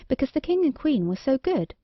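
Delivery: usual speaking voice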